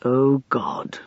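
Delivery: breathy whispered groan of dismay. A narrator's reading. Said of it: "groaned Max".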